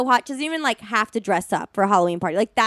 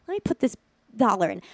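soft, careful little voice; gentle; 4 dB quieter, faster than usual. Retold or imitated. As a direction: ease it out softly, as if being careful. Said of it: "It's, like, gentle".

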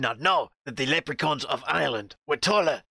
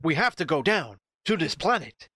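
lightly voiced Captain Kirk; a hint of a heroic starship captain; mild Kirk speech voice; Kirk impression. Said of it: "James T. Kirk delivering a speech".

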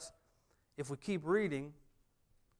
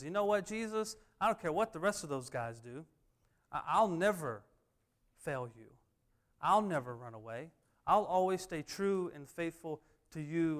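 bold, louder vow of loyalty; Peter speaking up; 3 semitones higher, 6 dB louder than usual. Acted. Peter pledging to Jesus he will stay true, speaking up boldly. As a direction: speak up emphatically, pitch jumping on key words. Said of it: "Peter's the one who speaks up".

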